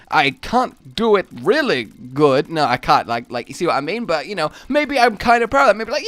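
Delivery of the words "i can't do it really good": slow, halting bad impression; Christopher Walken. Shown as a demonstration. Streamer admitting failure in a poor halting impression. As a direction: lightly imitate an actor's odd stresses. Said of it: "supposed to be Christopher Walken".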